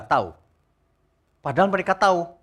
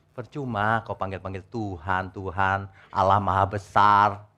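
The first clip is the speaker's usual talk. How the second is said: solemn quote; 5 semitones lower, slower than usual. Acted. Jesus voiced, slow and low.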